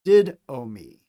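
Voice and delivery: didomi with a clear d; Greek word. Shown as a demonstration. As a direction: say didomi crisply for the class. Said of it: "Delta makes a d sound".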